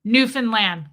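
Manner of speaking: Newfoundland as NEW-fin-land; loud NEW, middle reduced to fin in Newfoundland; Canadian Newfoundland pronunciation. Shown as a demonstration. Host copying a Canadian's ruling, NEW-fin-land for Newfoundland. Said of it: "we got a ruling on this".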